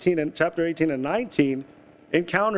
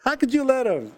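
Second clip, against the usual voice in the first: high, spluttering angry father; furious outburst; 11 semitones higher than usual. Retold or imitated. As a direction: sputter in disbelief, much higher. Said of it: "You know, that's anger".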